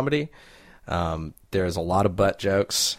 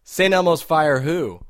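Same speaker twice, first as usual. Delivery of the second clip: high mock reply; 9 semitones higher, 5 dB louder, slower than usual. Knock-knock reply in character.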